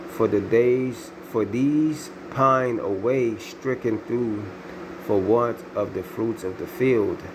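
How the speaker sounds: slow, solemn verse reading; scripture reading. Acted. Preacher reading Lamentations to his listeners, slow and grave. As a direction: draw out each line of the verse.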